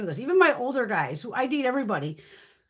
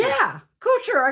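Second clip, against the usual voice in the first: raised, drawn-out imitation of a boyfriend; imitating husband; 9 semitones higher, 5 dB louder, much slower than usual. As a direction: slowly mimic him confirming his surname, pitched up. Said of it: "He's like".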